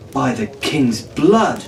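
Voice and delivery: slow, understated oath; a mild swear in awe; lightly voiced slow curse. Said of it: "he swore".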